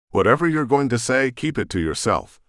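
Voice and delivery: firm, pointed warning. Acted. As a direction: warn her off before she starts. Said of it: "I warned".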